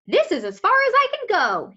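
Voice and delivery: lightly voiced orca; orca's voice. Orca telling Harriet the ride ends. Orca speaks in read story.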